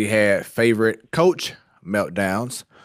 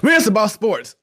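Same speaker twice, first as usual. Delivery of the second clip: show catchphrase; 8 semitones higher, 4 dB louder than usual. Pretend. Hosts perform show catchphrase.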